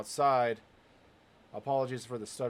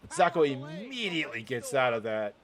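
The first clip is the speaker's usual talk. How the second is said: louder, punched match calling; play-by-play commentary; 2 semitones higher, 4 dB louder than usual. Real, not acted. Commentator picking the match back up, play-by-play. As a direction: call the holds with punch and momentum.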